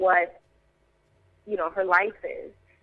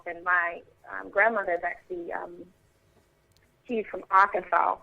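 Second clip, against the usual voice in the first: Southern accent. Shown as a demonstration. Actress demonstrates her down-south accent to interviewer, Southern accent. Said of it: "that's that one".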